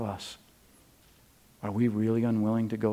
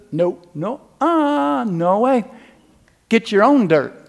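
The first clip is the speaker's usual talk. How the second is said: God voice; 9 semitones higher, 8 dB louder than usual. Acted. God's punchline in joke.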